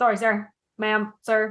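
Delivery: meek, sheepish, chastened, told-off puppy tone. Voicing Avery after being told to come back to the group: Avery's sheepish scolded apology. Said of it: "like a puppy who's been like told off".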